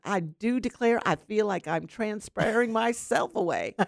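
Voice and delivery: put-on playful Southern accent, laughing. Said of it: "with a Southern accent".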